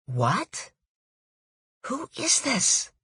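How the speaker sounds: surprised. Acted. Startled by a stranger's call.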